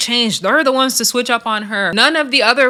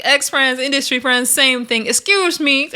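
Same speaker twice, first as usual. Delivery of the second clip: put-on higher-pitched take on another woman's accent; imitated a singer's accent; 4 semitones higher than usual. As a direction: lightly mimic her accent, pitched up. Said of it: "I love her accent".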